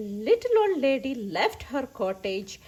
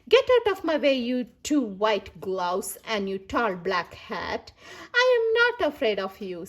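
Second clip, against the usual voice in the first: put-on bold old lady; 3 semitones lower than usual. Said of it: "she said".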